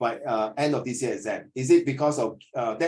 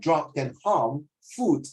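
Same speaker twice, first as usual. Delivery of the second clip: "food" stretched out long, slow pace; lengthened vowel in food; slower than usual. Shown as a demonstration. Teacher showing the long vowel in "food" to the student. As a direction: drag out the double O in "food". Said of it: "拉长那个音".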